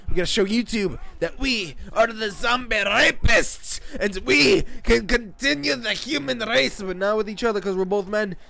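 high, loud, frenzied mock rallying cry; screaming rant. Gamer freaking out to teammate, high screamed rant. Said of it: "my little scream fest right there".

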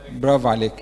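normal talking voice

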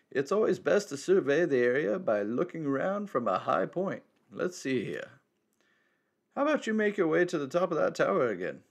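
lightly voiced wise old man; a hint of a cryptic elder.

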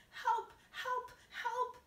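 loud, high cries for help; calling for help. Retold or imitated. Grandmother stuck on the ceiling calls for help, loud and high. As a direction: cry out stuck and desperate. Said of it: "hear her calling to us".

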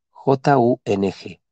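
J U N G deletreado despacio; deletreo lento. Shown as a demonstration. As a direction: deletrea J U N G letra por letra, lento. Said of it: "El mantra dice así". (deletreo pausado)

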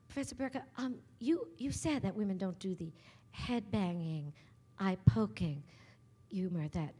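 lightly imitated Texas lady, hesitant; a hint of genteel Texas accent; classy Texas accent. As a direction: elegant Southern questioner feeling for words. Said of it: "classy Texas".

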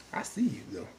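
whispered, knowing tease; teasing whisper. Retold or imitated. Viewer teasing Erica about her checks, sly whisper. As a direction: breathe it like a sly aside.

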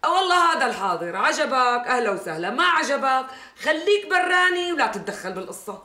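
angry retort. Acted. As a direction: tell him to stay out of it. Wife snaps at her brother in a quarrel. (ردّ غاضب بصوت عالٍ)

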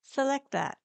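crisp command to the computer; dictating. Shown as a demonstration. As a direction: say it clearly like a voice command. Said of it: "You can say things such as".

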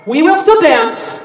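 loud, stressed rallying call; rallying cry to crowd. Real, not acted. Performer urges concert crowd on in a loud rallying cry.

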